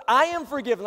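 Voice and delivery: laughing try. Shown as a demonstration. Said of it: "that's a bigger deal than it just sounded".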